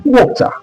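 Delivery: WATER with a crisp true T, high-pitched; British T. Shown as a demonstration. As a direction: hit a hard T in WATER, British way. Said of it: "It's different from British English".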